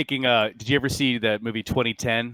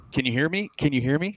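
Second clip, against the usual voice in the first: urgent call through a weak radio line, pitched higher; faint radio voice; 6 semitones higher, 3 dB louder, faster than usual. Acted. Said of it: "You hear a faint voice trying to come through".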